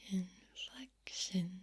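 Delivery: "inflection" drawn out slowly; varied inflection. Shown as a demonstration. Mixing up tone for fun, "inflection" slowly drawn out. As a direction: stretch "inflection" syllable by syllable at an even pitch. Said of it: "Mixing up my tone and inflection".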